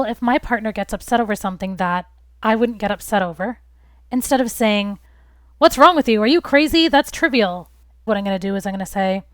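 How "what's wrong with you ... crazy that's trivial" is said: louder, higher, mockingly dismissive; mock harsh retort. To an upset partner, a mock harsh scolding. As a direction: scoff at the partner's worry. Harsh reply she avoids giving.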